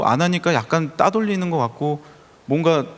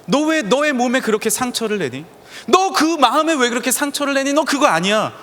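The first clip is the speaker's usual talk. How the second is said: God's voice; 9 semitones higher than usual. Retold or imitated. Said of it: "하나님은 때로는요, 우리에게 가르쳐 주세요".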